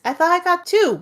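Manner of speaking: indignant protest. Acted. A scolded character haggling over her one chance, indignant protest.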